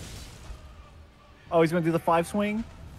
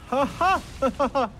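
boss laugh; 11 semitones higher than usual. Retold or imitated. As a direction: belt out a jolly boss laugh. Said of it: "He laughs like Santa".

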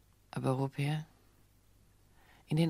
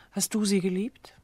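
whispered question; 2 semitones higher, 4 dB louder than usual. Acted. Woman asks the crucial question.

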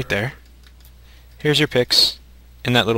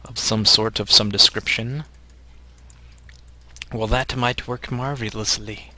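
nerd voice. Acted. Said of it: "It's my nerd voice".

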